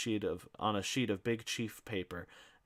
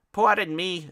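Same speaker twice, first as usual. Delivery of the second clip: haughty interruption; 10 semitones higher, 11 dB louder than usual. Acted.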